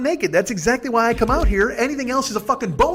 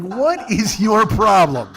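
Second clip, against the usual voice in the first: exasperated retort; 2 semitones higher, 5 dB louder, much slower than usual. Retold or imitated.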